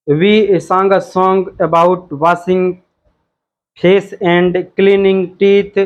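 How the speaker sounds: slow, careful English read-aloud. Shown as a demonstration. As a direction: read the task out word by word. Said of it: "in the poem". (धीरे-धीरे पढ़कर सुनाना)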